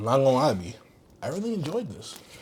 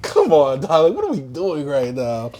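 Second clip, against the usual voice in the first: a hint of a weary, let-down dad; disappointed father; slower than usual. Father scolding his child, mild weary disappointment. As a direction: sigh it like a tired father. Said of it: "like the father that, he's not even mad".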